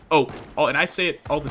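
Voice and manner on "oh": "oh" as Midwesterners say it. Shown as a demonstration. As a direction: say "oh" with a Midwestern accent. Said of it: "that is a Midwestern thing".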